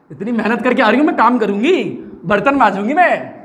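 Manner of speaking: put-on grumbling girl. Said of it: "ऐसा लड़कियाँ बोलती हैं".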